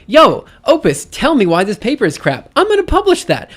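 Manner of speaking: mocking some person. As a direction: imitate a brash person firing off a request. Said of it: "some person who was like".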